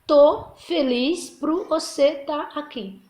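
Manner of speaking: relaxed everyday version, said slowly; informal casual phrasing. Shown as a demonstration. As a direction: drop into casual spoken Portuguese. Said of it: "Aí na linguagem informal".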